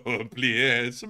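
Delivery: understated mock-resigned curse; imitated defeat. Host previewing his reaction to hit pieces, mock resigned. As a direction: sigh the curse as if used to it. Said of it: "that's gonna be my reaction".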